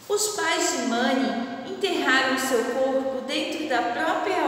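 measured read-aloud of the legend; teacher narrating a legend to her class; story reading. Acted. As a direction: read the legend gently to children.

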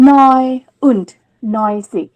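neun und neunzig, neun stressed; teacher models neun und neunzig; German ninety-nine. Shown as a demonstration. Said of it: "เราเอามาชิดกัน".

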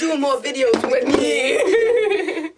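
slow angry Jamaican accent. Shown as a demonstration. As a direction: growl it in a bad Jamaican accent. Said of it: "That's like an angry".

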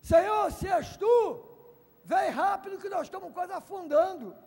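high, loud urgent plea; panicked plea. Pretend. Peter sinking and pleading, mock panic. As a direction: beg for rescue as you sink. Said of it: "Pedro podia falar o quê?".

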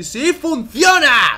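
loud, slow victorious shout; triumphant shout. Real, not acted. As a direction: yell that it works. Shouted twice.

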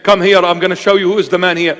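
lightly hammed-up macho dare; mock Superman bravado. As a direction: play the cocky tough guy calling him out. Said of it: "Don't be Mister Superman and say".

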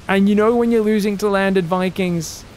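ordinary talk, nothing marked

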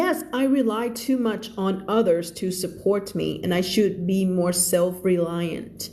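very slow, careful reading of English text. Shown as a demonstration. Teacher reading a passage slowly to her students. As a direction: read each word out slowly for the class.

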